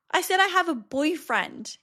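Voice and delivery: son's voice. Retold or imitated. Son voiced in retold story.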